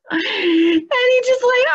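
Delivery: giggly aside; laughing. Real, not acted. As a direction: speak while still giggling. Still laughing.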